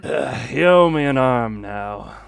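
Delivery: easygoing Southern twang; Southern accent. Acted. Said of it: "Mixing Chinese with Southern accent".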